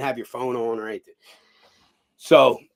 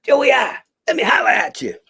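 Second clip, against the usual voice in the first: imitating Ryan Cougar; 9 semitones higher, 7 dB louder than usual. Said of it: "he goes".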